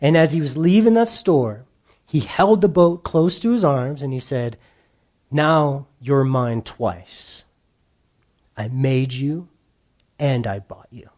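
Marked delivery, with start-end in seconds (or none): 5.3-11.1 cradle the words like something precious; tender. Acted. Boy hugging his boat as he leaves the store, slow and tender.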